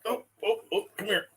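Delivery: high cooing pet voice; talking to a puppy. Real, not acted. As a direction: coo softly at a puppy.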